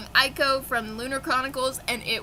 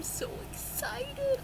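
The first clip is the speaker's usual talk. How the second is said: much higher, soft excited squeal; 14 semitones higher, 9 dB quieter, slower than usual. Real, not acted. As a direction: squeak it out with glee. Gushing about upcoming book.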